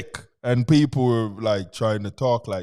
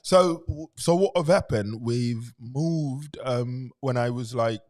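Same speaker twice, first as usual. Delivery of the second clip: low, soft British accent; 3 semitones lower, 4 dB quieter than usual. Shown as a demonstration. Guest showing co-host the British accent from England, British accent. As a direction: talk in an easy British accent. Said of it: "talk British for a little bit".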